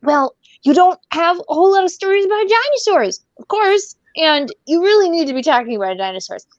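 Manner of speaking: put-on high-pitched eager kid; high child voice pleading for dinosaur stories; kid's voice. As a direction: play a kid earnestly complaining. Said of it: "it's just the kids saying".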